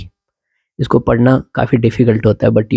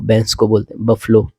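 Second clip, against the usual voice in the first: whisper. Real, not acted.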